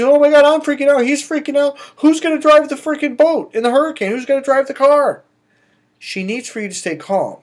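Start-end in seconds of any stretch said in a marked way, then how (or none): 0.0-5.2 high, loud mock panic; freaking out. Coach voicing a woman whose man panics in the hurricane, mock frantic. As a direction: act out a hammed-up panicked outcry. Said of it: "if you're freaking out".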